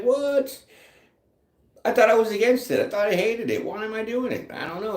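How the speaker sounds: high-pitched, incredulous self-questioning; baffled disbelief. Retold or imitated. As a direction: squeak it out in mock disbelief at yourself. Acting out her own baffled reaction.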